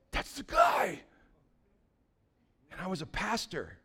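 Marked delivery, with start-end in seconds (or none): 0.1-1.0 sudden shout. Retold or imitated. Recognizing the attacker at beach.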